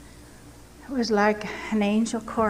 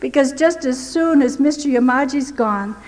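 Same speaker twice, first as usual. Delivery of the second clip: pleading prayer, pitched higher and rushing; fearful prayer; 3 semitones higher than usual. Retold or imitated. Retelling her panic in the cell, a frightened plea. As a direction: beg God as the dread rises. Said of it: "Oh, the fear that came over me".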